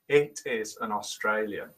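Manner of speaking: low, soft restatement of "Australian"; quiet confirmation. Real, not acted. Host confirming the clue to chat room guessers, low and quiet.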